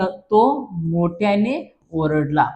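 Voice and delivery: spaced out slowly, word by word; slow dictation. Shown as a demonstration. Teacher giving pupils the sentence to write, slow dictation.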